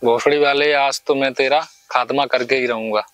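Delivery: angry abuse. Pretend. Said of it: "गाली दो।".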